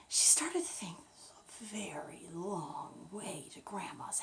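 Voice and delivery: hushed bedtime-story whisper; whispered storytelling. A narrator's reading. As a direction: breathe the story to a sleepy child.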